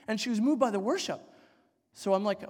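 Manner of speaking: ordinary delivery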